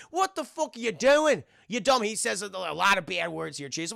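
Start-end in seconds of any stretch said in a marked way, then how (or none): 0.1-2.0 mock angry confrontation. Constantine confronting the possessed woman.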